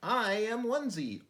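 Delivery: squeaky cute creature intro; little creature voice. Acted. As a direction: chirp it like a tiny critter.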